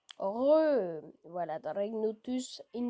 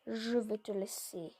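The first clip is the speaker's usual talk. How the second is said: whisper. Real, not acted. Aside while playing.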